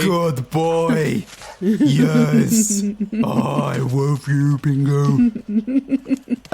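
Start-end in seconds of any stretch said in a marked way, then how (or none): 0.0-5.3 doting dog talk. Acted. Player fusses over his dog mount.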